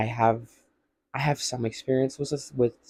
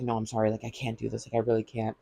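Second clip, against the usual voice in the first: softer, retreating, mock-timid apology; quiet apology; 7 dB quieter, faster than usual. Shane, panicking, apologizes to Ilya in a softer hushed voice. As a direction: back away with a hushed, half-acted sorry.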